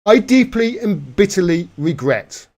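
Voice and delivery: lightly voiced sarcastic echo of a politician; a hint of a pompous politician; mocking the Prime Minister. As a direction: repeat the apology with scorn. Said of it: "clip of Prime Minister".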